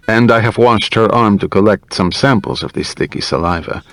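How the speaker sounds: lightly voiced doctor explaining the evidence; a hint of a careful clinician; methodical doctor. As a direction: report the findings as a measured doctor.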